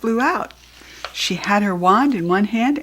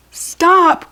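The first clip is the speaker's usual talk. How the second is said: sharp, high and loud furious yell; Kirsty yells at the fleeing goblin furiously; furious cry; 10 semitones higher, 7 dB louder than usual. A narrator's reading. Kirsty shouting at the thieving goblin, furious. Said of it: "cried Kirsty furiously".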